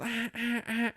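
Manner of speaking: high, soft mock alarm beeps; repeated bleats mimicking an alarm clock; imitated alarm blare. Telling how three alarms go off, imitated alarm blare.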